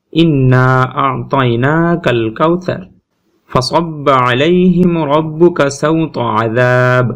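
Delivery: very slow, chanted recitation; teacher reciting the sample verses slowly; Quran recitation. Shown as a demonstration. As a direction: draw each syllable out like a reciter. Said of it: "এই তিনটে আয়াত".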